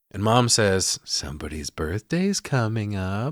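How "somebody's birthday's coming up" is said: play-acted loaded tone with a faint touch of doom. Retelling a film scene, quoting the mother's line: imitating a foreboding delivery. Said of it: "delivered with a little bit of foreboding".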